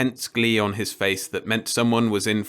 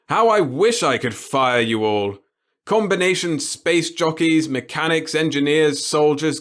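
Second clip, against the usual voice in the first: put-on gleeful old boss; 5 semitones higher, 4 dB louder than usual. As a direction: savour every word of it. The boss's curtain speech.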